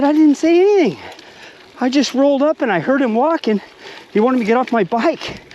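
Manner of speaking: high-pitched retold denial; defensive protest. Retold denial to his buddy.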